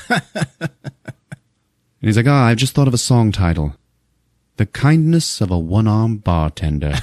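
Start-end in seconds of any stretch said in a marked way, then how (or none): 2.3-6.9 put-on light British accent; a hint of mock-British drawn over the words; Seth MacFarlane. British executive mocking the one-armed bartender, light British accent. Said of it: "he's playing it British".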